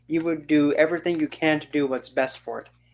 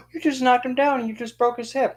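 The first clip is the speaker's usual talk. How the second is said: excited outburst; 10 semitones higher than usual. Real, not acted. Gleefully mocking the fallen geezer.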